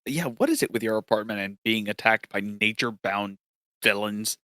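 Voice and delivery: slightly subdued, as if hurting; nursing sore ribs. Acted. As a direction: speak lightly, guarding bruised ribs. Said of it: "I think Ryder's nursing his ribs".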